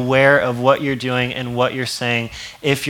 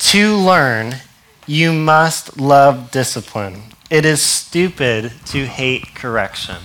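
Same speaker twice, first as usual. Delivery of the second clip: scripture reading; 3 dB louder, slower than usual. Shown as a demonstration. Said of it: "Proverbs twelve one. It says".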